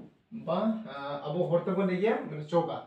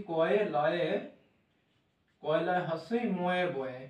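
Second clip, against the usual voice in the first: slow spelling; slower than usual. Shown as a demonstration. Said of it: "লেখা উচ্চারণ করা".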